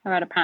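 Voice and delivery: Haras du Pin as 'a-ra du pan'; French silent s and nasal Pin; French pronunciation. Shown as a demonstration. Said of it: "So you say it".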